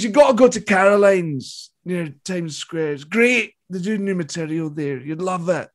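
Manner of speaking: lightly imitated famous comedian, softening at the end; Billy Connolly. Famous comedian recommending a club to two fans, lightly imitated. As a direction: recommend it with a hint of his voice. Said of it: "He goes".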